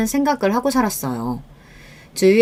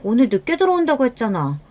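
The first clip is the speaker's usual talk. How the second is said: mildly annoyed, raised pitch; irritated wife; 4 semitones higher than usual. Acted. Wife faulting husband for coming home early, irritated. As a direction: voice a touch of annoyance. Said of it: "부쩍 짜증을 많이 내기".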